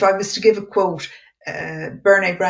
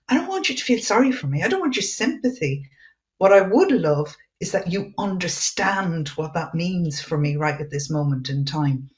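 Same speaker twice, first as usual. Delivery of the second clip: frustrated reply. Retold or imitated. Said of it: "I'm kind of going".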